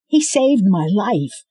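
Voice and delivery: slow, loud, each word weighted; slow insistence. Acted. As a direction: drive it home slowly. Scarlet insisting.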